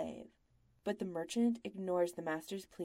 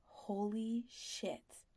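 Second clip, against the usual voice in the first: stunned thought; 3 semitones higher, 3 dB quieter, much slower than usual. A narrator's reading.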